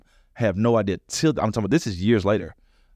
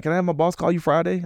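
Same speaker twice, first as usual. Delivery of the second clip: recruiter voice; 9 semitones higher than usual. Retold or imitated. Megan on the call.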